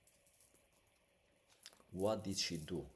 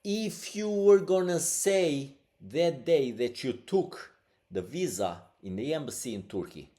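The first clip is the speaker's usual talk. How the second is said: retold angry warning; 6 semitones higher, 12 dB louder than usual. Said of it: "He said".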